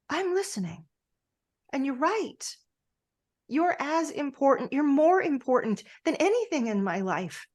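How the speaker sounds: earnest outpouring. Acted. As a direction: pour it all out to someone you nearly lost.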